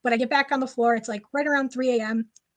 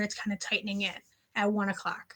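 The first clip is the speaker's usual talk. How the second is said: hushed whisper; 2 semitones lower, 6 dB quieter than usual. Real, not acted. Tense ghost story narration.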